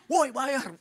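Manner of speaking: mock yell. Shop owner yelling at the pastor, mild mock yell. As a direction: call out for payment. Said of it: "tunci teriak lagi".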